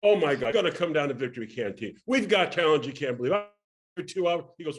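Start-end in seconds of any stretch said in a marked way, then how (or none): 0.0-3.3 gushing, loud sales plea; excited pitch. Retold or imitated. Young performer begging an agent to come, excited pitch. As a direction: pour it out eagerly to win them over.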